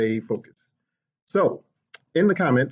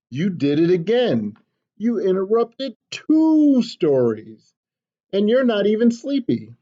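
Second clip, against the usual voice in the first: patient father; 6 semitones higher, 3 dB louder, slower than usual. Acted. Papa scolds slowly.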